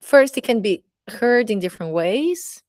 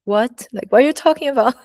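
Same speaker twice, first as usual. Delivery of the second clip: higher, fast, louder what-are-you-talking-about; shocked disbelief; 5 semitones higher, 3 dB louder than usual. Retold or imitated. Retelling her stunned reply to a rude classmate, fast and higher. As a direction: react like the comment stunned you.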